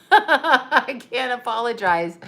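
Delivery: slow, laughing through the words; slowed, amused confession. Real, not acted. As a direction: giggle out a guilty non-apology. Confessing to eating the gift candy.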